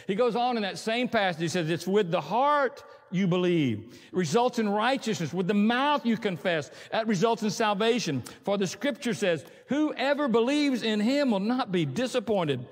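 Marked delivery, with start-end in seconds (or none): 1.7-12.6 slower, weighty scripture read; deliberate Bible reading. Acted. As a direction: read the verse like it matters.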